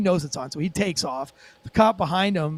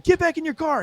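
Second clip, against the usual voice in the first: high-pitched, insistent order; acted command; 9 semitones higher than usual. Cop ordering driver back into car, acted urgent command. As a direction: repeat the order with raised pitch.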